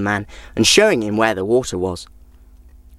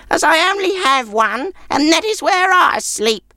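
put-on high, grudging old crone; an old woman shooing off a guest; much higher, cranky old woman's voice; sour old woman.

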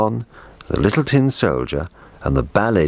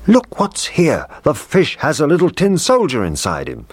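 high, delighted cook's cry of discovery; a cook startled by what's in the fish; excited cook's voice, pitched well up; surprised cook; 11 semitones higher than usual. Acted. The cook finds the soldier.

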